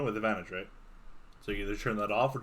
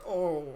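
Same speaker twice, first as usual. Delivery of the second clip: dying groan; 5 semitones higher than usual. Acted. Game master acts creature's death.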